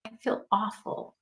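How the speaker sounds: small, soft plea of a daughter; mild, quietly upset imitation of a daughter; devastated child. Daughter texting her mom to come get her, gently devastated. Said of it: "she's so devastated".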